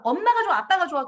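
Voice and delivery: lightly voiced parent coaxing the child; mock parent asking. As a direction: ask sweetly like a parent teasing a child. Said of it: "그런 거 절대 물어보면 안 돼요".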